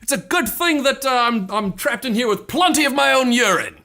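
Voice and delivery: chirpy wilderness-expert upbeat pitch; Bear Grylls impression. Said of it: "Snapchat Bear Grylls thing".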